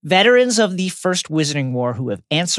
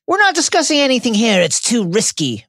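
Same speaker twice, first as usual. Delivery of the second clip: gruff Moody voice; 6 semitones higher than usual. A narrator's reading. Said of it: "Moody tells them".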